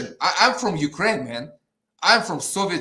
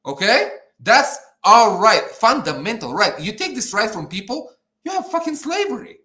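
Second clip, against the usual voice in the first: heated, emphatic outburst; angry rant; 3 semitones higher, 4 dB louder than usual. Real, not acted. Fed-up guest on crypto rights, angry rant. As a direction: drive it out, climbing higher at the end. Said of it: "ranting too much".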